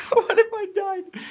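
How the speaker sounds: high mock voice.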